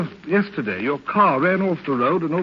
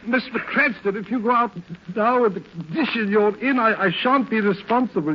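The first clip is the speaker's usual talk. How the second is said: higher, stammering objection; flustered protest; 5 semitones higher than usual. Acted. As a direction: protest anxiously to a stubborn master. Valet protests patient getting up.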